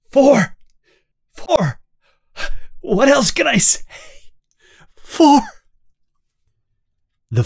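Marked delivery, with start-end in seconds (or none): 0.1-5.4 pleading in pain. Acted. Winston pleading under torture.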